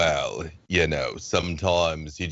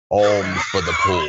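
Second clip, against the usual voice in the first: louder, called out with a laugh; beggar's call; 5 dB louder than usual. Shown as a demonstration. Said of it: "I'm gonna teach you some words".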